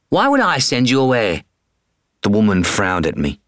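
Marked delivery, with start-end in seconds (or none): 0.1-1.4 higher, puzzled woman's voice; British vet asks why she'd refuse. Acted. Woman vet's voice.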